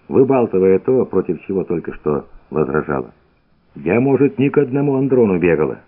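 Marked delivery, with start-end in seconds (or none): 3.7-5.8 fast, breathless chatter; rattling off fast. Acted. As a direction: rush the words out. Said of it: "затараторила".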